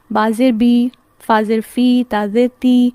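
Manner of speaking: "بی", "فی", "تی" each ending on a clear ee; teacher drilling the kasra series. Shown as a demonstration. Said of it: "sound ای کی ہوتی ہے".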